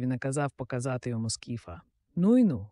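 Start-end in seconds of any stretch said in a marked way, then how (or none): 2.2-2.7 high, loud amazed cry; exclamation. A narrator's reading. Sir Ector sees the giant's head, amazed exclamation. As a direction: marvel out loud. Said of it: "вигукнув він".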